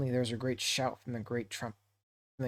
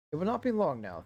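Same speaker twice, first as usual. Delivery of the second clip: higher fretful hobbit voice; Bilbo's worried thoughts; 5 semitones higher, faster than usual. Acted. Bilbo fearing the goblins will break through, higher anxious voice. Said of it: "thought Bilbo".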